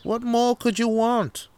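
put-on high, incredulous English accent; hammed-up English camper, pitched high. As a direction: protest grandly in a mock English accent. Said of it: "what the fuck is up with this English accent?".

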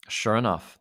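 ordinary delivery

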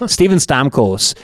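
slow Canadian accent on the name. Shown as a demonstration. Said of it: "in my Canadian accent".

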